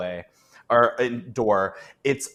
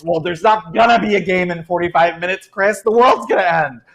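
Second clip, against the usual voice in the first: exasperated yelling; 6 semitones higher, 8 dB louder than usual. Acted. NPC panics back at coworker.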